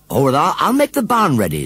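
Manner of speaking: high, loud flustered woman; fussy farmer's wife. Acted. Farmer's wife voiced in story.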